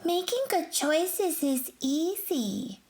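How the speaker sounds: put-on slow breathy whisper of a confident child; voiced child whisper. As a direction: whisper it like a kid sharing a secret. Listener voiced, unvoiced and slow.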